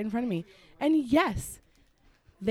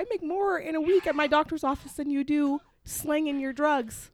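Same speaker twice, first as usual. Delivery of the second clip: higher, incredulous retort; indignant retort; 4 semitones higher than usual. Retold or imitated. Driver yelled at the rude guy, indignant and higher. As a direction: scoff at the insult, offended. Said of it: "I'm like".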